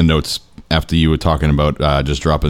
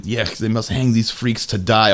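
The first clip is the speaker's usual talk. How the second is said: mock Russian accent; 3 semitones higher, slower than usual. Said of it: "and he, he says out loud".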